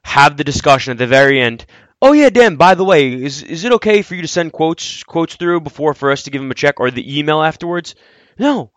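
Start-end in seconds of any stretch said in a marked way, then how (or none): 2.0-7.9 lightly voiced breezy PR rep; mock PR person. Mocking a PR person's late ask.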